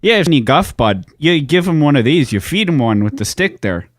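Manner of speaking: put-on folksy Canadian accent; mock Canadian local. Host advises taking a hockey stick down there, mock Canadian.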